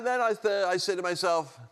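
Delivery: normal talking voice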